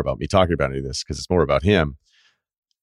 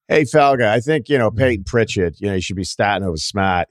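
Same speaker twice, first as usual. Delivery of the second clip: lightly voiced sports talk caller; mock radio caller; 3 semitones higher than usual. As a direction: do an overeager Boston caller.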